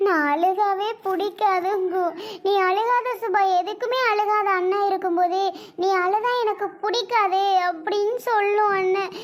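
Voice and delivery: tearful lament about a brother; crying. Acted. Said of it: "நீ இப்ப அழுது என்னாக போகுது".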